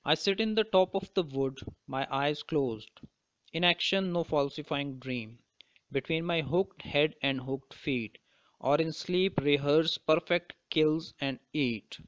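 slow, deliberate poetry reading; measured, unhurried reading of verse; poem recitation. Acted. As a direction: recite the verse slowly, phrase by phrase. Reads the poem aloud.

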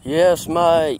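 playful put-on Australian accent; hearty mock-Aussie "mate". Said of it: "Australian voice".

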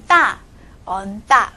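大 said as tense tta after eon; left-consonant reading. Shown as a demonstration. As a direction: demonstrate eon-tta with a hard 大. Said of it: "那么怎么读".

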